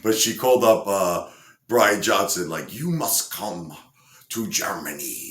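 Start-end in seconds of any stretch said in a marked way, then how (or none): 2.7-5.3 clumsy attempt at a German accent; slow, commanding line in a rough German accent. German lady phoning a singer, in a poorly faked German accent. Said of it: "I can't do a German accent".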